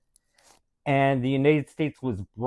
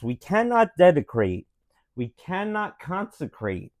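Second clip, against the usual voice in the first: Abraham Lincoln voice. Acted. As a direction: read it like a president at a memorial, with only a hint of Lincoln. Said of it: "in Abraham Lincoln voice".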